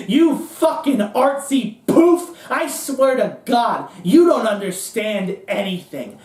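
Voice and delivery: high-pitched, scornful tirade with stretched emphasis; jeering rant, hammering the key words; Cohn. Acted. Cohn mocking the playwright who doubts the win, scornful tirade. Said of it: "He goes".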